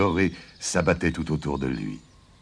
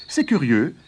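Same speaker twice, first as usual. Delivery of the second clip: smug farmer; 13 semitones higher, 3 dB louder than usual. Acted. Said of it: "s'étonna Jude".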